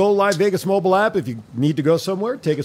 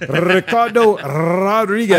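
ring announcer voice; 3 dB louder, much slower than usual. Acted. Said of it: "I think you just did it right now".

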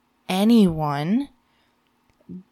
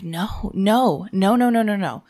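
firm refusal; 4 dB louder than usual. Retold or imitated. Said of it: "And I'm like".

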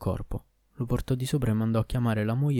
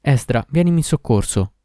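loud, raised-voice plea; cry for help; 4 semitones higher, 8 dB louder than usual. A narrator's reading. Doctor who finds the dead hunchback calls on Esdra, crying out. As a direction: cry out for rescue. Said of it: "gridò".

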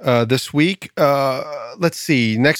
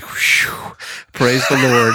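relieved; much slower than usual. Acted. Preacher relieved at cliff edge.

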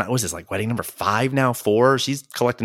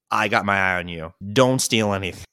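suspicious clerk; 5 semitones lower than usual. Retold or imitated. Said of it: "one big way of saying".

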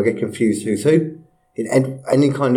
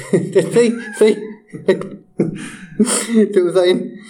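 slow put-on Chinese accent; a bad attempt at a Chinese accent; 8 semitones higher, much slower than usual. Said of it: "I can do a good Chinese".

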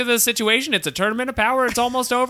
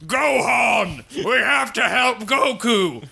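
urgent shout; 3 semitones higher, slower than usual. Retold or imitated.

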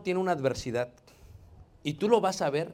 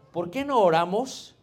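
slow gentle suggestion; 2 semitones higher, 4 dB louder, slower than usual. Retold or imitated. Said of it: "Le digo".

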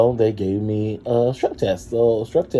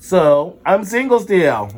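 mock upbeat; 7 semitones higher, 5 dB louder, slower than usual. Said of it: "We're gonna talk about some upbeat things".

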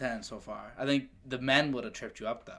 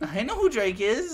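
laughing mock echo; 11 semitones higher, 5 dB louder than usual. Mocking friend's protest.

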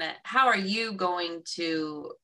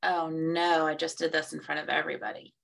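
mildly dismayed self-talk, dropping quiet and quick; feeling bad; 3 dB quieter than usual. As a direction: let the worried thought sink softly. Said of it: "until you make yourself feel bad".

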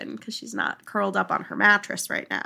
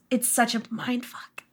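whispered; 6 dB quieter than usual. Real, not acted. Awed aside after describing song.

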